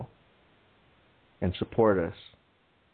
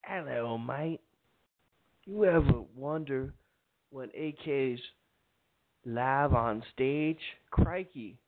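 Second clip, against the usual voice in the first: put-on English accent; 4 semitones higher, 4 dB quieter than usual. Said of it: "I really can't do an English accent".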